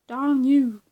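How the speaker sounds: hammed-up offended cry; attempted YouTuber impression. YouTuber offended at his mispronounced name, rough imitation. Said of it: "He sounds a bit like that".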